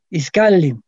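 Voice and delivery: "Iskali" stressed on the middle syllable, is-KA-li; stress on penultimate. Shown as a demonstration. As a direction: lean on the KA in "Iskali". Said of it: "acento en la penúltima sílaba".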